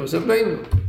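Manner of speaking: V'Sabbeinu stressed as the key word. Shown as a demonstration. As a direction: lean firmly on V'Sabbeinu. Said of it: "put the emphasis on the V'Sabbeinu".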